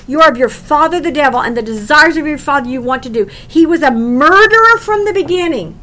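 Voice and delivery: forceful rebuke. Acted. Preacher voicing Jesus' rebuke.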